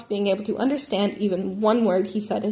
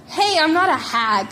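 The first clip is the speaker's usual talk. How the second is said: high, loud mock yell back at her son; raised-voice comeback to a teen; 6 semitones higher, 5 dB louder than usual. A narrator's reading. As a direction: shout it back, half joking. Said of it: "Mitsuki yelled back".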